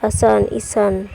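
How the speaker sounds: असन, ईसन spelled out very slowly; teacher sounding out examples slowly; slow example words. Shown as a demonstration. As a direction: drag out असन and ईसन for the class. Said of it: "एका से का".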